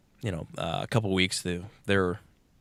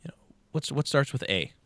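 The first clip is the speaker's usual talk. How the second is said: teacher voice; 4 semitones higher than usual. Retold or imitated. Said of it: "It's like".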